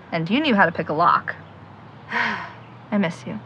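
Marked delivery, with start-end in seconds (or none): 1.7-3.4 sigh then soft sad words. Acted. Alone, missing her lost brother.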